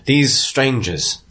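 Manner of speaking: measured speech with pauses; addressing a crowd. Acted. Town leader addressing the crowd about strangers, measured oratory. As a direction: address the townsfolk, slowing on key phrases. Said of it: "he's addressing the crowd".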